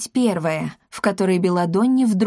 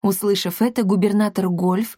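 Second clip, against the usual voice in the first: plain reading voice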